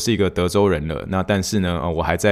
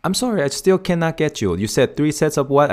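confused client; 7 semitones higher than usual. Retold or imitated. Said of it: "然后说".

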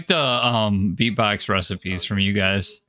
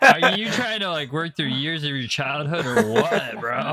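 squeaky teasing voice, laughing; high mocking laugh; 3 semitones higher, 4 dB louder than usual. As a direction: tease him in a high voice. Mocking friend, high excited voice.

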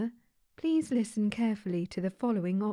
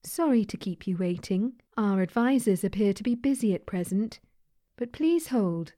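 automated phone menu; 4 dB louder than usual. Acted.

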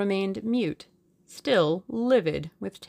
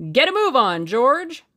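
loud, high call to the driver; raised voice, rising on the name; shouted order; 8 semitones higher, 8 dB louder than usual. A narrator's reading. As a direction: shout an urgent command. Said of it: "shouted Julius".

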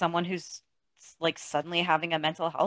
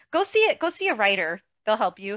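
mocking; 2 semitones higher than usual. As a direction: parrot the therapist's advice. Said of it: "mocking the therapist".

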